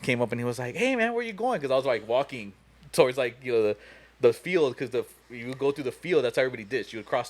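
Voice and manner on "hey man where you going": high-pitched friendly hail; mock calling out. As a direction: imitate a buddy hailing someone, pitch raised. Friend calls out as he walks.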